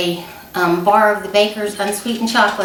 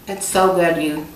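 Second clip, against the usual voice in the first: talking through a mouthful of chocolate; mouth full; 4 semitones lower than usual. Real, not acted. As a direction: say it round a bite of chocolate. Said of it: "I'm talking with chocolate in my mouth".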